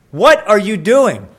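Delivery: loud, slow startled challenge; mock shout. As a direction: call out the sneak across the field. Neighbor catches the boundary mover.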